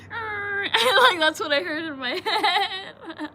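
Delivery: talking through giggles; words broken by laughter; laughing. Real, not acted. Laughing while retelling.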